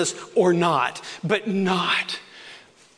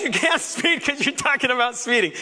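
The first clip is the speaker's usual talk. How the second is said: inner exclamation; 7 semitones higher than usual. Retold or imitated. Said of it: "I'm thinking".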